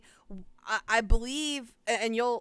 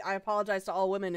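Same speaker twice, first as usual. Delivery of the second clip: fast; 3 semitones lower, much faster than usual. Retold or imitated. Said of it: "read it as is".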